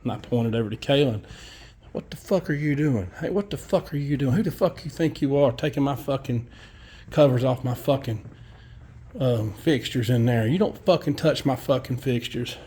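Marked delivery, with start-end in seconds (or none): 1.9-12.6 mild mock outrage, slightly raised pitch; retold angry plumber. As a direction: imitate an irate plumber telling someone off. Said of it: "that plumber lost his mind".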